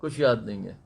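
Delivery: whispers her answer back to her; soft echo whisper. Real, not acted. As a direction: repeat it under your breath, gently. Echoes the girl softly.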